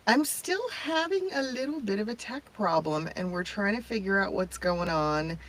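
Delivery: tinny, metallic tin can audio; tin can sound. Real, not acted. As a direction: voice like it's coming from a tin can. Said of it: "I know it sounds like I'm in a, a tin can of some sort".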